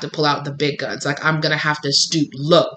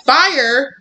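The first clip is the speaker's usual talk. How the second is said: hammed-up cat voice, much higher and louder; excited cat; 10 semitones higher, 4 dB louder, slower than usual. Speaker voicing the cat dancing round a burning candle, wildly excited. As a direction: whoop it up like a reckless, thrilled cat. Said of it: "cats are like".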